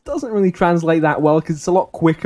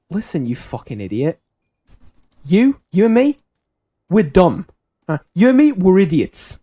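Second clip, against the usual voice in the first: louder, blunt friend cutting him off; retold gruff reality check to his mate; sharp blunt cut-off; 6 dB louder than usual. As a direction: shut down the pep talk bluntly. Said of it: "it's a very sharp, sort of, uh, quick way to, to cut him off".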